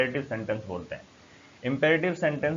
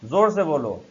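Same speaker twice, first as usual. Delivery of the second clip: frustrated; 2 semitones higher, 4 dB louder, much slower than usual. Shown as a demonstration. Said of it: "आप उससे frustrate हो जाएं".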